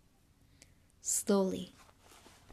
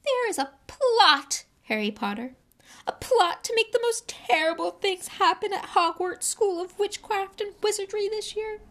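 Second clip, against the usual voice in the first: whispering elf; 13 semitones higher, 6 dB louder than usual. A narrator's reading. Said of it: "whispered Dobby".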